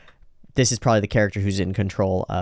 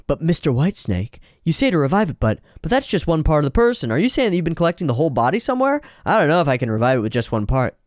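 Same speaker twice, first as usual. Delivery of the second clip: squeaky high voice; 5 semitones higher, faster than usual. Acted. Sports Maxx protests.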